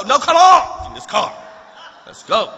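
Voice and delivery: half-laughing mock urgency; urgent call. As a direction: hustle her into the car, raising your voice. Hurrying wife away from dog.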